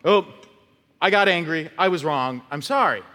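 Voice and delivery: quick, offhand sorry; a careless apology that shrugs the wrong away; breezy token apology. Shown as a demonstration. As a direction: toss it off like it costs nothing. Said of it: "I'm not just gonna go".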